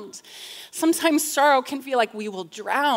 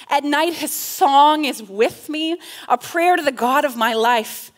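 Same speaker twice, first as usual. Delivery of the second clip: louder, raised psalm reading; fervent scripture reading; 3 semitones higher, 6 dB louder than usual. Acted. Preacher reading the psalm's hope to listeners, fervent. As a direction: read it out with fervor.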